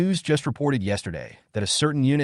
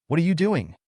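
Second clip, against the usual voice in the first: pitched much higher, puzzled; curious question; 8 semitones higher than usual. Acted. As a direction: ask it with sudden curiosity. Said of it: "This made him curious".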